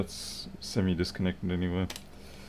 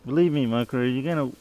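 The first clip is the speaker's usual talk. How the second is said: lightly raised pet talk to Micro; light cat voice; 4 semitones higher than usual. Real, not acted. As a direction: warn the cat teasingly. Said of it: "my cat voice".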